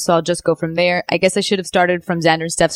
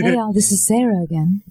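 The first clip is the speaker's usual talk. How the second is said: sultry radio voice. Shown as a demonstration. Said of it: "sounds like she's trying to hit on us".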